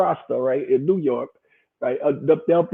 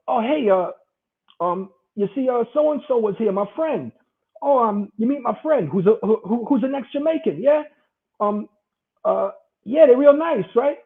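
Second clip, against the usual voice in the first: higher, lightly sweet small talk; fake friendly; 5 semitones higher than usual. Imitating someone hiding a grudge behind pleasantries. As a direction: act overly nice while hiding a grudge. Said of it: "They go like this".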